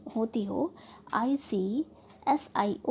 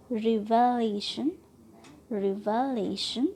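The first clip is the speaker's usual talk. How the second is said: रिवलेशन drawn out slowly, stress on LE; second-last syllable stressed; slower than usual. Shown as a demonstration. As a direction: stretch and lean on 'ले' in रिवलेशन. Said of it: "syllable पर trust कर रहे हैं". (रिवलेशन में 'ले' पर ज़ोर)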